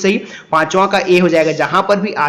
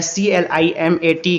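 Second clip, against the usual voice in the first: spelling out; slower than usual. Shown as a demonstration. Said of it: "क्लाइमेट को ऐसे लिखा जाता है".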